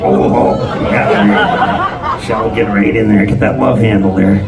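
ordinary talk, nothing marked

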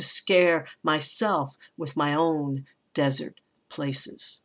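slow, deliberate poem reading with weight on each stress. Acted. Teacher reading the last stanza aloud to her class, slow and weighted. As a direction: read the stanza aloud slowly, savoring it.

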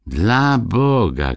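a drawn-out, slow alarmed exclamation; dismayed cry. Acted. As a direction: gasp it slowly in dismay. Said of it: "krzykną krasnoludki".

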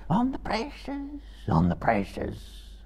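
high, pleading creature voice repeating the oath; cringing Gollum. A narrator's reading. Gollum cowering before Frodo, high pleading whine. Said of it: "he repeated".

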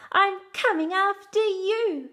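loud, high playful roar; dad as a mock-fierce lion, shouting loud. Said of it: "the mighty lion roars".

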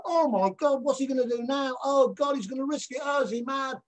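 high, excited crowd voices; excited audience screams. Retold or imitated. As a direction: squeal it like a gasping audience. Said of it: "they were screaming like".

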